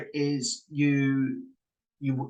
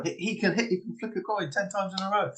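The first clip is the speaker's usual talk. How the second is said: imitating an impressed viewer, pitched higher; mildly amazed; 5 semitones higher, 4 dB quieter than usual. Viewers taken in by coin trick, mock amazement. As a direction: marvel in mock wonder, voice lifted.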